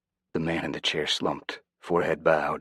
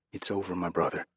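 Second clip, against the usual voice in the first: softer, gentle reassurance; fatherly comfort; 2 semitones higher, 3 dB quieter than usual. Acted. Jose comforting the sobbing Rodrigo, soft fatherly reassurance. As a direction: soothe him like a hurt child. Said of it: "that of a father talking to an injured child".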